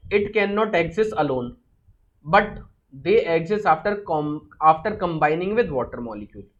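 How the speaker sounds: very slow, word by word for notes; slow dictation. Shown as a demonstration. Teacher dictating a definition to students, slow and deliberate. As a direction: dictate slowly so students can copy.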